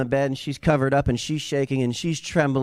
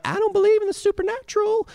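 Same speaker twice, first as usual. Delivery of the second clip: very high, quick caricature voice; mocking falsetto objection; mock stick-in-the-mud skeptic; faster than usual. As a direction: squeal it like a prissy doubter. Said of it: "you're like".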